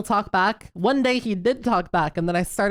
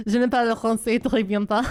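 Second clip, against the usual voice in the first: American accent in French. Shown as a demonstration. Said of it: "or however the fuck it goes".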